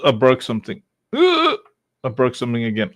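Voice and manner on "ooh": surprised ooh. Real, not acted. Reacts to breaking the presentation.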